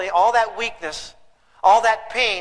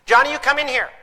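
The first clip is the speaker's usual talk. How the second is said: put-on calling kid in; 4 semitones higher than usual. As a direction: play an exasperated parent hollering out the door. Parent calling kid inside.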